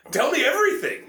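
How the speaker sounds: high, eerie creature voice; creepy monster voice. Shown as a demonstration. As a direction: sound like a sinister thing. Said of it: "was it like a".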